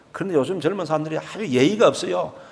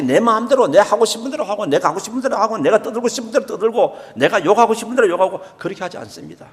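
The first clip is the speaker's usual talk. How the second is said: ordinary talk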